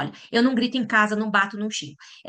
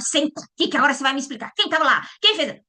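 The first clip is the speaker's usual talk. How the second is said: interrogating; 5 semitones higher, 3 dB louder than usual. Retold or imitated. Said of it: "fazer interrogatório".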